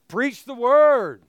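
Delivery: loud, slow, commanding; emphatic shout. Shown as a demonstration. Preacher reading Paul's charge aloud, shouted emphatically. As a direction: bellow it out like a command. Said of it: "Exclamation point".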